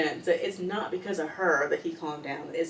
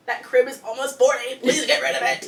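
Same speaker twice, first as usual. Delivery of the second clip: louder, laughing plea to get rid of it; 4 semitones higher, 5 dB louder than usual. Retold or imitated. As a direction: plead through a laugh. Mocking plea to mom.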